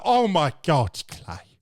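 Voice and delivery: imitated girl with a British accent; mock British accent, dropping away on the name; put-on British accent. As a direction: redo her greeting in a heavy British accent. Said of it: "she sounded like fucking Ricky Gervais".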